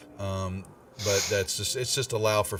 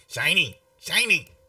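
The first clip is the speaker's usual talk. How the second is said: thin, nasal, small pitched-up voice; 9 semitones higher, 5 dB louder than usual. Voicing a character's line during a game, in a thin nasally voice. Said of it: "kind of in a thin nasally voice".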